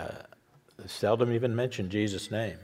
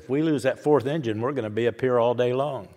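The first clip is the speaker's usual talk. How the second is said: laughing punchline; faster than usual. Retold or imitated. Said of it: "He said".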